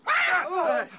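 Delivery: high loud squawk of a shout; sudden screeching cry. Acted. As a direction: scare them off with a yell. Bird screeches at rabbits.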